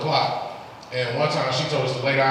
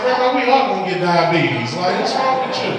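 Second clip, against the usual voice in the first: higher, louder mock outrage at grandma; mock alarmed; 6 semitones higher, 5 dB louder than usual. Grandson scolding grandma over watered juice, high mock outrage.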